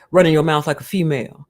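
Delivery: a lightly voiced sneering pundit; mild mock of a pundit's put-down; mocking Kwame. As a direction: scoff at the men like a talk-show host. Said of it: "he's like".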